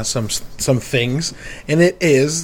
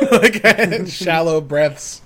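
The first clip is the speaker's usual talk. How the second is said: laughing; 3 semitones higher, slower than usual. Real, not acted. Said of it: "heavy panting increases".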